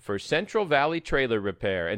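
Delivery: smooth, steady sponsor read; radio ad read. Acted. Host reads a sponsor spot to trucking listeners, upbeat ad read. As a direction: sell the trailer repair shop like a radio spot.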